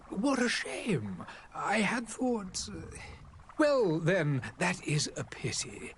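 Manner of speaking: halting, unsure, searching for words; hesitant. Acted. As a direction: trail off, then recover politely. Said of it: "You seem slightly hesitant".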